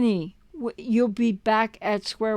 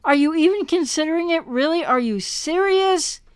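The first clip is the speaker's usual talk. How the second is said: incredulous; 5 semitones higher than usual. Retold or imitated. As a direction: ask it in pure disbelief. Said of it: "it's like".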